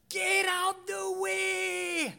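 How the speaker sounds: high, slow, hammed-up shout in his rural English accent; shepherd's scream. Angry English shepherd yelling at the driver, high hammed-up accented shout. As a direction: bellow it like the furious English shepherd. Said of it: "he started to scream at me".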